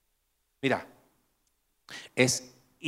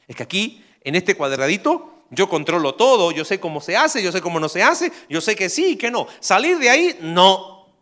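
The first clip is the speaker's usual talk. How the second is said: rising, smug, loud and higher; playing someone clinging to control; comfort-zone voice; 4 semitones higher, 5 dB louder than usual. Preacher voicing a fearful believer, smug and loud. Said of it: "el miedo a salir de ahí".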